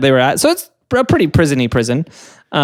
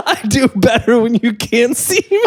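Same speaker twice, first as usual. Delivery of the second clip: higher mock performer voice; ventriloquist voice; 7 semitones higher than usual. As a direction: play a sly ventriloquist. Playing the ventriloquist.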